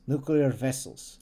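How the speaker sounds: put-on slow, trial Russian accent; slow Russian accent practice. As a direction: test a Russian accent, slowly. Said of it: "Russian accent".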